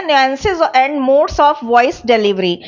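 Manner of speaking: each word spelled out slowly for notes; slow dictation. Shown as a demonstration. Teacher dictating a heading to the class, slow and clear. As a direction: dictate it slowly so students can write.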